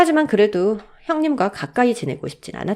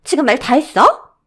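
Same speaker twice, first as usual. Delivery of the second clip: louder, higher, affronted demand; offended sister-in-law; indignant challenge; 6 semitones higher, 7 dB louder than usual. Acted. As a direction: snap back in an acted quarrel. Acted quarrel between sisters-in-law.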